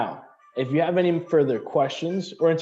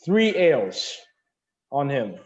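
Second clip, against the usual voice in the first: playful order; 3 semitones higher, 3 dB louder, slower than usual. Acted. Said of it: "she points over to you".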